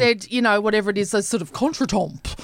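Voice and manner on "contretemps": "contretemps" said as a French word; French pronunciation. Shown as a demonstration. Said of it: "suddenly just bust out a".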